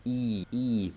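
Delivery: long, held "I" as in ee; I larga. Shown as a demonstration. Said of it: "un sonido de una I larga". ("I" alargada, como doble i)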